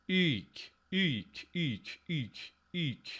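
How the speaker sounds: "eek" with a long, held ee; long vowel. Shown as a demonstration. Testing the merged form, "eek" said with a long vowel. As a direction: stretch the vowel of "eek" as one long sound. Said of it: "the long vowel win here".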